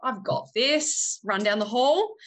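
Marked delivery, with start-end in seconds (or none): 0.0-1.2 mock confident. Mock brave mother.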